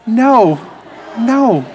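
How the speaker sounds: high, cheerful refusal; happily turning someone down. Shown as a demonstration. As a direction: say no with real cheerfulness. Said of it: "with a real cheerfulness".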